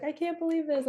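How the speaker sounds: high, giddy disbelief; hammed-up squeal of disbelief; imitating excited client. Retelling her client's excited text, mock giddy. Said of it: "she was so excited".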